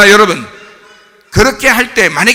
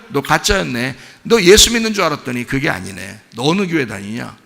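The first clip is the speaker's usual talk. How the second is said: disillusioned onlooker; 5 semitones lower than usual. Acted. Companion judging a churchgoer a fake, low disillusioned murmur. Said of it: "화내고 그러면".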